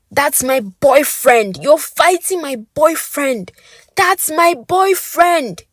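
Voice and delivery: slow, high, trembling cries; high, slow, shaking pleas; shaky, breathless. Acted. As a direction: sob it out in panic. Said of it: "on a shaky breath".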